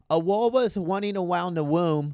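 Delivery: "A wawa's wanting around the womb" with every r said as w; childlike w for r in "wawa's wanting"; says w for r. Retold or imitated. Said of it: "couldn't say her R's".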